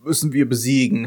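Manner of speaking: slow, hammed-up villain line ending in laughter; mock villain. Podcaster imagining the monster vowing to defeat the magical girl, mock villain. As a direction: play a cartoonish villain, then break into an evil laugh. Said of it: "Das Böse lachen kann und sagt".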